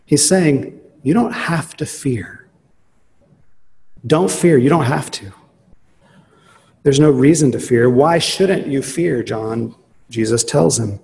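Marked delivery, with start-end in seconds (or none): 1.0-9.8 gentle reassurance. Retold or imitated. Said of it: "Jesus is not rebuking John".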